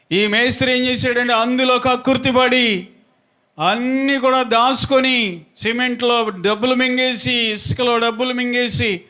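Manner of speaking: high, ringing sermon delivery on a held note; preaching. Real, not acted. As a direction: preach it out, stretching phrase endings. Preaches the story.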